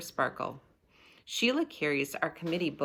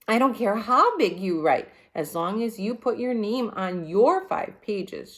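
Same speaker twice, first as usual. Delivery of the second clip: put-on high, louder, impatient girl; bossy Sheila; 5 semitones higher, 6 dB louder than usual. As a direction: brush him off sharply. Sheila snaps at Jimmy.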